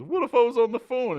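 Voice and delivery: high, loud dopey question; hammed-up high dumb-guy voice; dim Joey. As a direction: play a clueless guy who misses the point. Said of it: "And he goes".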